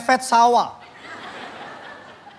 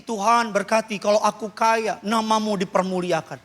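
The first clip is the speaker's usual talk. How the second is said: a softer, lower, mock-humble plea; mock pious prayer; 6 semitones lower, 5 dB quieter than usual. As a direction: pray for riches, softly and sweetly. Jemaat berdoa minta kaya. (doa lirih pura-pura saleh)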